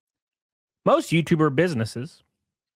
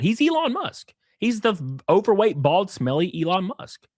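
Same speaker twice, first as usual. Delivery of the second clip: sarcastic mockery; 6 semitones higher than usual. Sarcastic comparison of partner.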